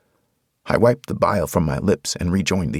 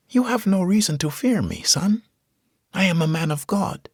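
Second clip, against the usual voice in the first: put-on gentle preacher, higher, with a Hispanic accent; 12 semitones higher than usual. A narrator's reading. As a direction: soothe the soldier, Hispanic accent. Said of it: "He had a Hispanic accent".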